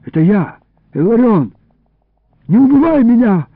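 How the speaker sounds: trembling plea. A narrator's reading. Boy to the man who seized him, trembling plea. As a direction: pitch climbing into frightened begging. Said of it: "взмолился я дрожащим голосом".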